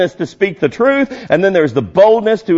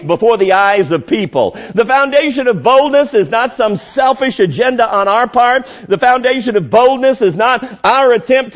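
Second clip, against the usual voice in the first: higher-pitched, insistent pulpit delivery; impassioned preaching; 6 semitones higher than usual. Real, not acted. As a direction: drive each point home to the congregation. Preacher building intensity in sermon.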